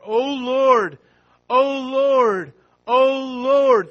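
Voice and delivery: impassioned preaching cry; fervent cry. Acted. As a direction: call out to God thrice.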